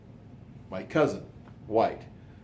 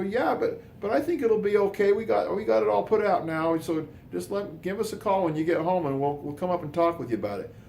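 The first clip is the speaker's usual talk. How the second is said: much higher, louder put-on chief voice; fake fire chief; 11 semitones higher, 4 dB louder than usual. Posing as fire chief to brother-in-law, high loud put-on voice. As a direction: hide who you are behind a high official voice. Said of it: "Chief Fredrickson of the Ogden Fire Department".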